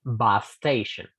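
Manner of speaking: "bus station" slowly, one shared s; slow linked demo. Shown as a demonstration. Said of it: "el caso de la palabra station". ("bus station" lento y unido)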